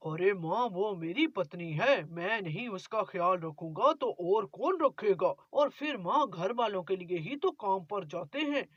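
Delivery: a hint of a polite young son; son Mohan. Son answers mother.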